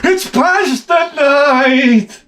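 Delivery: high, very slow sing-song announcement; waiter announcing. Retold or imitated. Comic imitating the restaurant announcing pasta night, sing-song. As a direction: stretch it out like cheerful staff.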